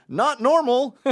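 high, loud giggly stranger; hammed-up hilarity; imitated laughing. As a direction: squeal it through mock laughter. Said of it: "they start laughing".

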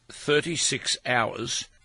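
slow, deliberate figures with pauses between; measured and grave, word by word; slow, weighty delivery. Shown as a demonstration. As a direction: say it slowly, letting each number land. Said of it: "You've got to say it slowly".

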